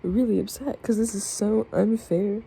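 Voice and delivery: emotional, pitch rising as it goes on; real upset, emphatic complaint; really upset. Real, not acted. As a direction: protest it, upset and worked up. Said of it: "I'm being emotional right now, but I'm just really upset".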